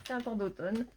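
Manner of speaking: just blew nose, still sniffly; talking through a blown nose; blowing nose. Real, not acted. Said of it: "je me mouche".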